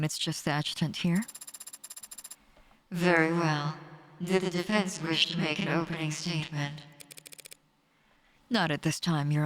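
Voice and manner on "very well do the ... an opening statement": lightly robotic court judge; a hint of machine monotone. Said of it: "I got a robot voice".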